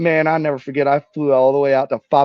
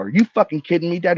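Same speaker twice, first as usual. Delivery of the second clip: higher, incredulous blurt at Dad; indignant, pitched-up disbelief; retold outburst; 6 semitones higher, 3 dB louder than usual. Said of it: "for my breakout".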